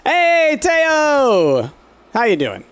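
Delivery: bright high call to a pet; high excited greeting. Real, not acted. Gamer greeting her pet Teo, high excited hello.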